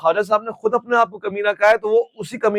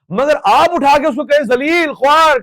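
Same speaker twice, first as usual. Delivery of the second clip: insulting jab; 7 semitones higher, 4 dB louder than usual. Retold or imitated. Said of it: "یہ بدتمیزی میں شمار ہوگا".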